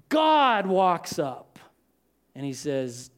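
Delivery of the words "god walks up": normal talking voice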